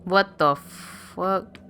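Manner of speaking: very slow, drawn-out "what the fuck"; stunned disbelief. Real, not acted. Player baffled by strange scene, slow stunned disbelief. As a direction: stretch it out in baffled shock.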